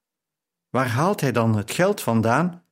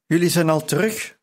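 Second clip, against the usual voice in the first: calling out; 5 semitones higher than usual. Acted. Pari calls out to the returning pair in the kitchen. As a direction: call it across the kitchen. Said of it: "riep Pari".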